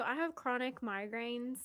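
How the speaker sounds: unintended Southern accent; Southern twang slipping into normal talk; real Southern. Real, not acted. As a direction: let a Southern accent slip out. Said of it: "that came out real Southern".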